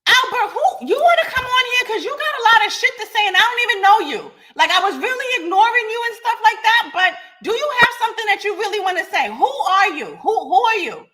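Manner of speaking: high, laughing taunt, fast in places; mocking laugh. Real, not acted. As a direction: laugh him off while calling him out. Mocking caller on live podcast.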